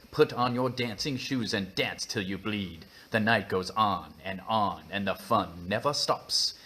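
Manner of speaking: put-on British-accented noir narration; measured, slightly put-on British storyteller. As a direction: keep trying the British accent as you read. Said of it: "it's worth a try".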